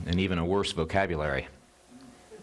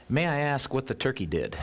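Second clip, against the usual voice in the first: raised, prim parrot question; a touch of a nervous, proper parrot; polite parrot; 6 semitones higher than usual. Retold or imitated. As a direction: ask it timidly, like a chastened bird. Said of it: "the parrot continued and said".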